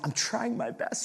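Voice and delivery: high-pitched mock protest; high, defensive little-brother voice. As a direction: imitate a kid pleading high. Retold brother protesting in test.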